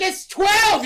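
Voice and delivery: high, loud protest; pet creature voice. Retold or imitated. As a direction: squeal it as a worried little creature. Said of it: "He's like".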